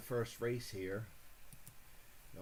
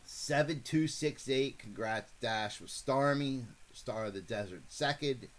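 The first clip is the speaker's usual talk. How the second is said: race call. Acted. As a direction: call the race like a track announcer. Streamer calls a virtual horse race.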